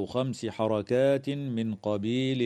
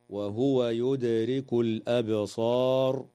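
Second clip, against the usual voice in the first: recited stop. Shown as a demonstration. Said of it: "ويجوز الوقف على قوله تعالى".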